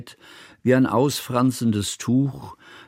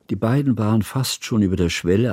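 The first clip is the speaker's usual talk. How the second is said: usual speaking voice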